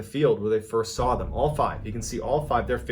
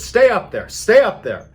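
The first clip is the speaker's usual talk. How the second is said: high, loud warning called upstairs; urgent shout; 10 semitones higher, 10 dB louder than usual. Acted. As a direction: shout the order twice, urgently.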